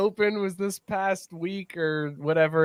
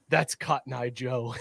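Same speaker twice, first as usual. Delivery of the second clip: mock-upset announcer; 5 semitones lower, 6 dB quieter than usual. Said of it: "was so upset".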